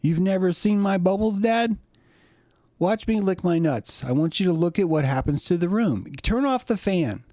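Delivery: high-pitched dog voice; cartoonish high pet voice; talking dog. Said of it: "And a dog's just like".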